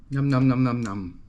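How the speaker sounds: playful nom-nom eating noise; mock munching. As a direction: pretend to gobble it up in quick repeated noms. Mimics eating the dish.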